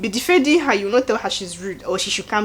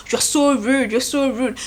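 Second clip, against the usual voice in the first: mock angry shout, a bit higher; retold shouting; 4 semitones higher than usual. Shex shouting at Bella in the room, mock angry shout. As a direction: throw the accusation like a scolding. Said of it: "he's shouting at her".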